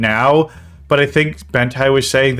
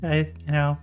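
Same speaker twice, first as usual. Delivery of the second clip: mock sad Susie; 4 semitones higher than usual. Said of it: "you're making Susie sound so fucking sad".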